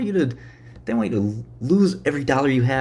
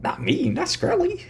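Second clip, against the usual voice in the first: much higher, squeaky playing-dumb voice; mock innocent voice; 6 dB quieter than usual. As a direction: play dumb in a high little voice. Mock innocent self-questioning.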